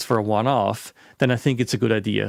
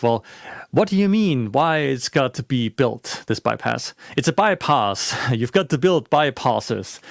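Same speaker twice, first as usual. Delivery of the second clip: bad British accent. Construction worker telling Arthur Dent why the bypass gets built, in a bad British accent. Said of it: "I'm gonna do a very bad British accent here".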